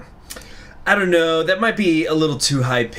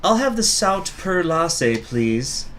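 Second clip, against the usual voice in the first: higher, slow character voice; 6 semitones higher, slower than usual. Acted. Character orders.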